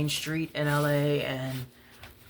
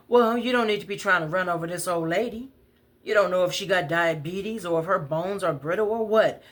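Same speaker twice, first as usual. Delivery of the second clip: higher, louder, fast lecture; raised indignant voice; angry scolding; 4 semitones higher, 4 dB louder, faster than usual. Retold or imitated. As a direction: tell him off firmly. Woman scolds man.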